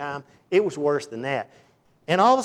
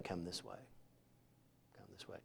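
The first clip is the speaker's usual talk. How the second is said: God's call dropped to a hush; soft call; 6 semitones lower, 25 dB quieter than usual. Retold or imitated. Preacher voicing God calling softly through the storm, whispered. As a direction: whisper it gently, drawing them in. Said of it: "get quiet enough".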